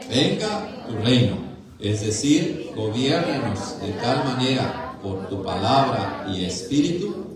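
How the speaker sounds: measured, projected group recitation; formal recited prayer, phrase by phrase; catechism recitation. Acted. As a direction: read it out firmly for a congregation to join in. Reads catechism answer aloud with congregation.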